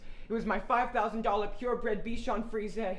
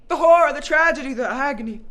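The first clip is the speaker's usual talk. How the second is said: hammy wail; 9 dB louder, faster than usual. Acted. Hammy grief over dead dog.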